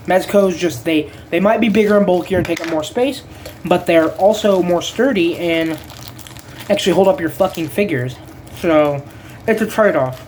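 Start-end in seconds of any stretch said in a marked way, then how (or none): 3.7-10.2 talking with plastic in mouth; mouth full. Real, not acted. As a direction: speak around something held in the teeth. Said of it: "Sorry, I have the plastic in my mouth".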